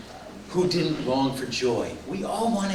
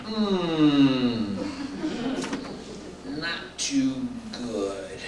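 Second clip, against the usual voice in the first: slow, mock-glum reply, sinking low and soft; joyless; 4 semitones lower, 5 dB quieter, much slower than usual. Joy-challenged person answering how you doing, glum. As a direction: drag it out like a joy-challenged grump. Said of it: "joy challenged people".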